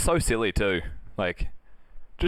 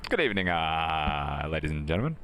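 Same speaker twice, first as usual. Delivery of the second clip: flight attendant voice; 5 semitones lower, 4 dB quieter than usual. Pretend. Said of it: "the flight attendant took over".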